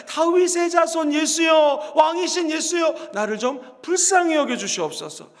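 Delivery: drawn-out pleading cry to Jesus. Acted. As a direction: call out slowly, begging for mercy. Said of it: "그의 기도는 재밌습니다".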